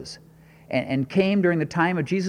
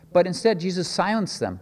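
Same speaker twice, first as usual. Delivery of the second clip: ordinary delivery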